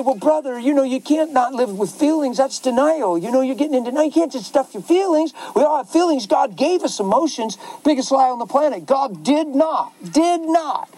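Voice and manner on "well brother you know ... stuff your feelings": mocking the critics. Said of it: "People say".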